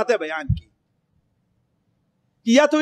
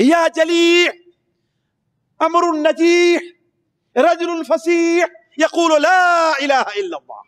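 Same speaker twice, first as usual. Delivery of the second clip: slow raised chant of the words; loud call; 5 semitones higher, slower than usual. Retold or imitated. Preacher repeats the unseen voice to the crowd, raised. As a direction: proclaim it slowly and high. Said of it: "کہا زور سے یہ آواز آئی".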